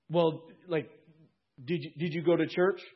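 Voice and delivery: a lightly voiced curious angel; questioning angel. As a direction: probe him like a gatekeeper.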